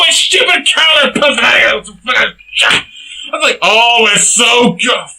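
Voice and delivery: very high, loud outraged yelling, cracking with laughter; furious shouted rant. Real, not acted. Ranting that the film's music is not rock, loud high yelling. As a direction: scream it in comic outrage.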